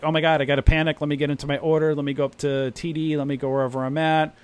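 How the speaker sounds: mock panic. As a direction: rush through it like a flustered newbie. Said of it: "Now you guys are like".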